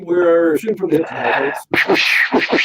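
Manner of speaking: hammed-up radio announcer; radio host intro. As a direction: announce the comeback like a DJ on air. Host relaunching the show segment.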